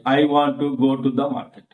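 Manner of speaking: "I want to go to the market" with even weight; every word pronounced. Shown as a demonstration. Teacher showing Telugu speakers' habit, every word stressed. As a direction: sound out "to the" as fully as "market". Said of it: "we pronounce every word, every sound clearly".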